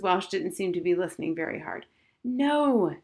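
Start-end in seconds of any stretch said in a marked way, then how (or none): 2.2-3.0 higher, long exasperated no. A narrator's reading. Girl to her inattentive mother, exasperated. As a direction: push it out in exasperation. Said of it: "in an exasperated way".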